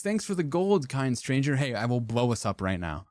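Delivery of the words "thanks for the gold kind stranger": mock Redditor voice. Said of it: "how Redditors talk".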